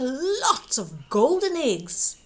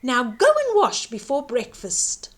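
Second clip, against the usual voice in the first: mild scolding; 4 dB louder than usual. Acted. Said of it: "the giantess scolded".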